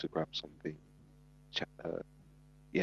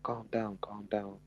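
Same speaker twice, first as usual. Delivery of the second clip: whispered calm down, calm down; hushed soothing; 3 semitones higher, 8 dB quieter, slower than usual. Retold or imitated. Mum whispering to calm her daughter. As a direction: hush her gently through the door.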